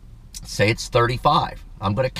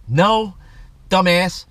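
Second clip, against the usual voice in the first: annoyed retort; 8 semitones higher, 5 dB louder, much slower than usual. Real, not acted. Angry at rude cashier.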